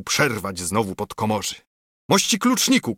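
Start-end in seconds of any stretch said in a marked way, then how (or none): 2.1-3.0 high, loud angry shout; shouted call. A narrator's reading. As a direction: bark it across the table. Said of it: "krzyknął". (głośny, gniewny okrzyk)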